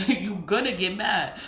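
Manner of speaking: laughing through the words; chuckling as she repeats it. Real, not acted. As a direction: say it amused, with a laugh. Same line repeated, second laughing.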